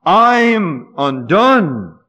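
slow drawn-out cry of woe. Acted. Isaiah crying out his despair, slow and drawn out. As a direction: stretch each word in despair. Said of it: "he cries out".

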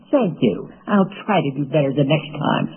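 mock-sarcastic thanks, as a bad example; nasty sarcastic tone. Shown as a demonstration. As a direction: say it with a demonstrative sneer of sarcasm. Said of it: "sarcastic tone".

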